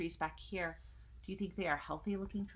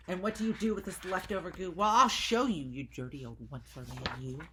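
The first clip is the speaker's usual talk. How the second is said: story character voice; 7 dB louder than usual. Acted. Characters arguing.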